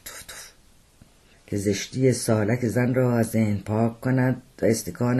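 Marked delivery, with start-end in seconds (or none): 0.1-0.5 soft dry spitting sounds; quiet spitting. Acted. Khan spits to clear the ugly sight, softly. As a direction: spit softly twice. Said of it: "چند بار آهسته گفت".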